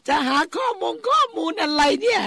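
high, loud exclamation at the phone; flustered outburst. Real, not acted. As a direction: cry out in a fluster, pitch way up. Flustered by her difficult phone mid-programme. (โวยเสียงสูงดังอย่างลนลาน)

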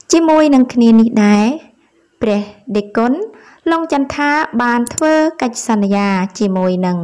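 measured news reading in short, separated phrases. Acted. Presenter reads viewers a report on a monk, measured news read. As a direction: read it out like a news article, pausing between phrases.

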